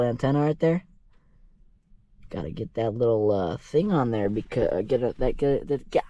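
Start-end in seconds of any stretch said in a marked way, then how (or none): 2.3-6.0 tongue-tied from the cold; can't get the words out, stumbling; stumbling over words. Real, not acted. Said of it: "I can't even speak".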